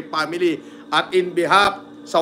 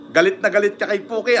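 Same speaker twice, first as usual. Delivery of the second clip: ordinary talk, nothing marked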